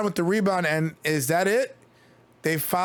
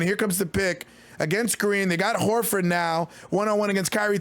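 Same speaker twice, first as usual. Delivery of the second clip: quick raised game call; live play-by-play; 3 semitones higher than usual. Real, not acted. Streamer calling the last possessions, urgent play-by-play. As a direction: narrate each possession fast.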